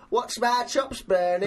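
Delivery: lightly voiced cartoon character. Showing off a second impression, cartoon voice. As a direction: put on a slight cartoon voice. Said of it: "All right, what about this?".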